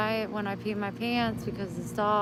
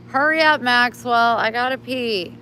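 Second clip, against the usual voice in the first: urging the dog; 3 semitones higher, 5 dB louder than usual. Real, not acted. Owner urging Maxwell to hurry because she needs to pee, impatient.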